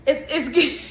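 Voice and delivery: laughing. Real, not acted. Laughing while starting to speak.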